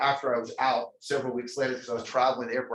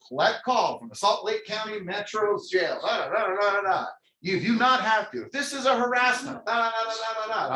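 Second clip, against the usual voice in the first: higher-pitched sing-song phone recording; recorded operator message; 8 semitones higher than usual. Retold or imitated. Collect-call recording heard from jail, mimicked in high voice. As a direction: rattle it off like an automated announcement. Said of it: "I'm hearing it go".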